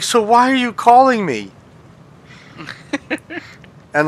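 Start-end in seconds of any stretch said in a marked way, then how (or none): 0.0-1.5 much higher, exasperated question; incredulous retort. Retold or imitated. Retelling his reply to the coworker, incredulous. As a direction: throw it back at him. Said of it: "I'm like".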